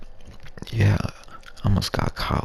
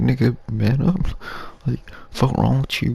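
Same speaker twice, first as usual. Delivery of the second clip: scornful scolding; 7 semitones higher than usual. Retold or imitated. Scolding the crying kid.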